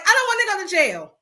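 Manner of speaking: whiny high panic; mock panicked wife. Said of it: "she's like".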